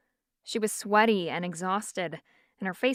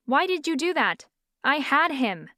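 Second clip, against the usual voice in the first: irritated disbelief; 5 semitones higher than usual. Acted. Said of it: "Irritation and disbelief surged".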